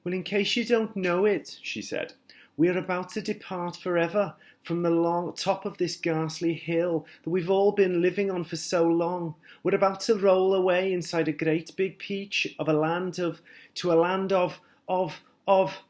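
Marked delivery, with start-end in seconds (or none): 0.0-1.6 gentle ladybird. A narrator's reading. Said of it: "a gentle and kind creature". 2.6-15.8 gentle ladybird. A narrator's reading. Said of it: "a gentle and kind creature".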